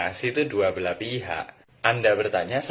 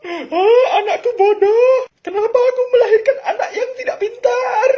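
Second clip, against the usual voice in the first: hysterical mom; 10 dB louder than usual. Acted. Parent shrieking about dumb child.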